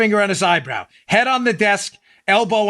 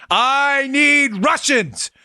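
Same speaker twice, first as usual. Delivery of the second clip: mock prosecutor; 5 semitones higher, much slower than usual. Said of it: "mock prosecutor demand".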